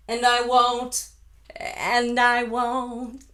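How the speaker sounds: very slow, drawn out; slowed-down drill; slow practice. Shown as a demonstration. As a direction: drag it out slowly. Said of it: "get used to that little row".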